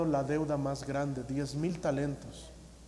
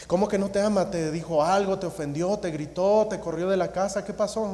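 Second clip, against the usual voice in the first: louder, rapid-fire worried questions; a pastor firing concerned questions; alarmed pastor; 3 semitones higher, 6 dB louder than usual. Retold or imitated. Pastor startled by the daughter's claim, louder alarmed questions.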